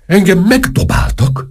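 high, choking outrage; choked up. A narrator's reading. Minister protests to the major that he was pelted, choked and high. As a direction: force it out high, as if short of breath. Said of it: "mondta a miniszter elfulladva".

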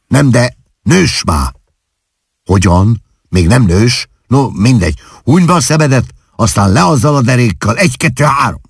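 high, brisk coaxing; fussing, impatient mother. A narrator's reading. Mother hurrying Klárika to close her eyes and undress, impatient coaxing.

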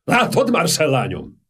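magasabb, remegő hang; rezgő hang. A narrator's reading. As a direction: meghatottan rezegve. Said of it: "rezgő hangon". (rezgő, meghatott hangon)

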